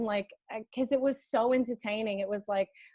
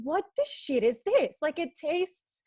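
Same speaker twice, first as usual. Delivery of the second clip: higher-pitched mock outrage at the taste; incredulous, pitched up; retold baffled outburst; 5 semitones higher, 3 dB louder than usual. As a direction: recount it in baffled disbelief. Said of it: "I was like".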